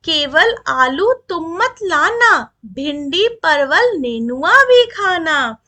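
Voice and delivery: put-on slow, measured reciting of verse for children; poem recitation. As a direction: read each line slowly and rhythmically, like a class poem. (धीमी लय में कविता पाठ)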